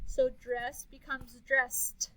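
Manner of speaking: slow, dressed ending in a crisp T; T ending shown. Shown as a demonstration. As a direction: stretch it out so dressed ends on T. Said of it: "Did you hear that it was a T sound".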